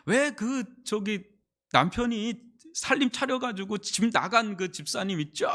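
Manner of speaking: a pastor's rough imitation of Gyeongsang speech; Gyeongsang accent. 목사님에게 집사님 소식 전하는 전도사, 서툰 경상도 사투리. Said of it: "그 경상도 말입니다".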